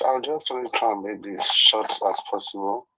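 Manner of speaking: wobbling voice over a bad phone line; shaky warbling call-in audio; jitter warble. Real, not acted. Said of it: "your voice is wobbling".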